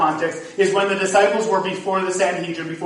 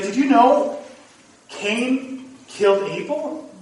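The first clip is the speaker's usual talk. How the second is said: put-on higher, slow, wide-eyed teen girl voice; teen girl's question; 5 semitones higher, slower than usual. Pastor imitates a teen amazed at a Bible story, high and slow. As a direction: draw it out like an amazed teenager. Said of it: "she's like".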